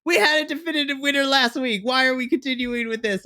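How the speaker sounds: replaying her outburst at Frankie; exasperated retort. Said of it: "I'm like".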